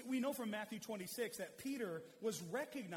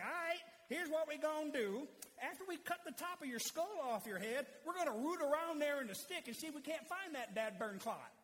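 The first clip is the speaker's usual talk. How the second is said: put-on Southern accent; 6 semitones higher than usual. Brain surgeon explaining the operation to a patient, Southern accent. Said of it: "he makes fun of the Southern accent".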